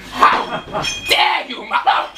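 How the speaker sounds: breathless, voiceless indignation; scandalised, halting outrage; affronted. Acted. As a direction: gasp out the offence word by word. Offended reaction to insult.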